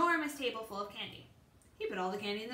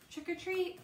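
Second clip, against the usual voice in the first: small, high-pitched "Trick or treat"; a timid little high call; soft trick-or-treat; 6 semitones higher than usual. A narrator's reading. Lance at the lady's door, asking softly. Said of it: "he said very softly".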